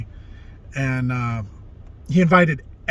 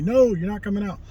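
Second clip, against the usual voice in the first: stern coach refusal; 8 semitones higher than usual. Retold or imitated. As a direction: lay down the law to the player.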